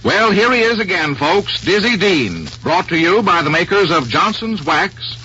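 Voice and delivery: brisk, bright sponsor read; old radio announcer. Acted. Vintage radio sponsor intro.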